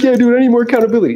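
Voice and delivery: high, fast imitation of a participant; teasing, overeager bro protest; mock pleading excuse.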